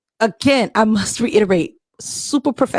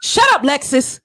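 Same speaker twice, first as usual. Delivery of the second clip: fireside storytelling. Acted. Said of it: "in the female Morgan Freeman voice".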